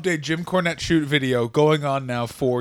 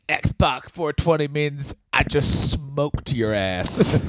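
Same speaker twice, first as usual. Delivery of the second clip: X-Pac promo voice; 2 semitones lower, much slower than usual. Retold or imitated.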